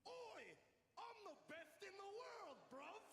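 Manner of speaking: a lightly done Cockney impression; mock Cockney. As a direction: sneer it out in a put-on Cockney accent. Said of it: "a Cockney cockhead".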